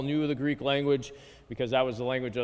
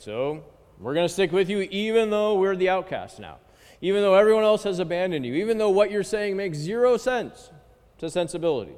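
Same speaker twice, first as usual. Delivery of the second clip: rising, faster, louder vow; Peter's fervent pledge; 6 semitones higher, 4 dB louder than usual. Retold or imitated. Teacher voicing Peter vowing to stay with Jesus. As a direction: swear loyalty with building fervor. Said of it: "The response of Peter".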